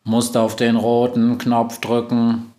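slow monotone instruction; even, mechanical delivery; robot Globus. Acted. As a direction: say it like a computer.

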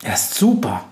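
breathed delight; pleased, airy reply; happy. A narrator's reading. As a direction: answer with hushed joy. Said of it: "antwortet die Hexe glücklich".

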